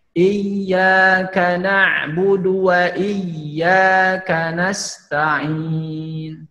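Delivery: slow melodic Quran recitation. Shown as a demonstration. Teacher recites the verse for the students to follow. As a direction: chant the verse slowly and melodically. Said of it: "Ya, coba".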